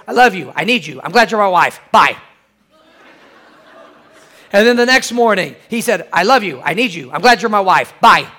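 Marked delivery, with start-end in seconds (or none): 0.1-2.2 flat robotic monotone. Retold or imitated. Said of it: "in a very robotic, a very monotone voice". 6.1-8.3 flat robotic monotone. Retold or imitated. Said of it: "in a very robotic, a very monotone voice".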